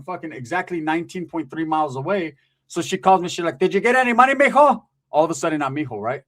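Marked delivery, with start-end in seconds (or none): 3.6-4.8 sweet-talking tia. Retold or imitated. Greedy tia voiced in story.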